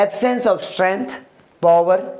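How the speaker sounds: each word drawn out slowly; slow dictation. Shown as a demonstration. Teacher slowly dictating the meaning to the class. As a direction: spell the phrase out slowly for students.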